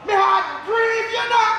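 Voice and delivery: slow, drawn-out mock lament; milk the grief, slowly; grieving widower, slow and overdone; hammed-up grief. Father grieving over dead wife.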